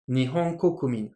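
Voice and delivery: Nihon Kokumin with a rise then a fall; Japanese pitch demo. Shown as a demonstration. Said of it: "On monte ici, on descend ici".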